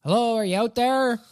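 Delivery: hello, anybody out there; calling from far away. Pretend. Calling out for missing player.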